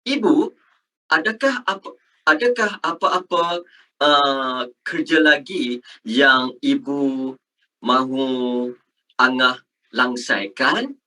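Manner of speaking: careful, measured textbook Malay; polite formal question, phrase by phrase; formal Malay speech. Shown as a demonstration. Teacher models a child asking mom about chores, formal Malay. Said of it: "you talk to your mom like this".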